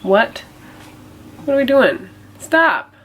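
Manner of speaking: sudden high startled "what are we doing"; surprised. Real, not acted. Reacting to something off camera.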